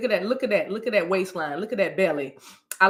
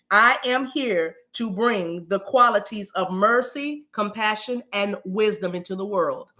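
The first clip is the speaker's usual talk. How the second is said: affirmation to repeat; 3 semitones lower than usual. Shown as a demonstration. Host leads viewers in speaking an affirmation aloud, measured declaration. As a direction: spell out each phrase for others to repeat. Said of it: "say that out loud into your atmosphere".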